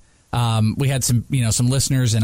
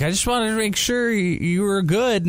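lightly voiced worried producer, pitched higher; mock concerned producer; 9 semitones higher than usual. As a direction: play the producer checking in, gently concerned. Same producer voice.

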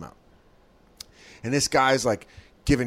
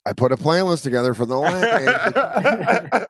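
mock quote; 3 semitones higher, slower than usual. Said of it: "Justin goes".

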